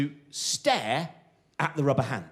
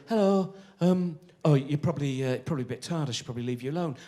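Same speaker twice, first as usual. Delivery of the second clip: nervous stranger. Retold or imitated. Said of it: "he looked really nervous".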